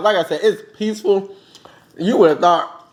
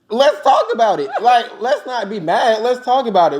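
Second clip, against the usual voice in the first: laughing; 4 semitones higher than usual. Retold or imitated. Laughing while pleading with grandma.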